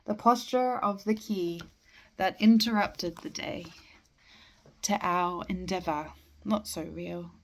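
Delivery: measured poem recital with line breaks; poetry reading. Acted. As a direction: recite verse, pausing after each phrase. Reads a poem aloud.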